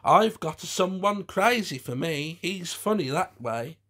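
high camp puppet voice; Hans. A narrator's reading. Soldier puppet shows off, lightly camp. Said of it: "made him wag a limp wrist".

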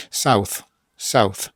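South said with tongue under the top teeth; English th sound. Shown as a demonstration. Teacher demoing South for the class. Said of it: "Powiedz sy, tylko język".

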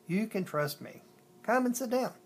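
mild, kindly coaxing lifting at the end; gentle reassurance. A narrator's reading. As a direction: coax a shy girl to stay. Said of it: "he said gently".

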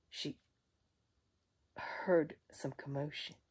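soft suspenseful whisper. A narrator's reading. Storyteller hushes, suspense.

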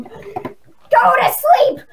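very slow, high, stretched taunt shout; drawn-out taunt. Pretend. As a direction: drag it out to mock him. Taunting enemy player.

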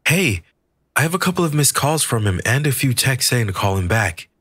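calling through door. A narrator's reading. Maria through bathroom door.

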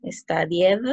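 STUDIED with -ED as a separate syllable, stu-di-ed; read as spelled. Shown as a demonstration. Teacher reading for students how it is written, STUDIED as spelled. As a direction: sound out each written vowel in STUDIED. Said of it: "solo estoy leyendo cómo quedaría".

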